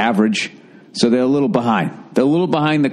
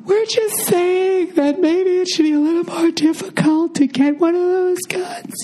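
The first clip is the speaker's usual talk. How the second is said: stereotype liberal. Pretend. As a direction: drag it out like a pleading lefty. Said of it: "the people on the left can be like".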